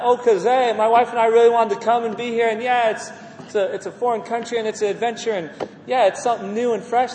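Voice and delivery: lightly acted chirpy explanation; mock casual excuses. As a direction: imitate someone rattling off easy reasons. Mimics casual excuses he rejects.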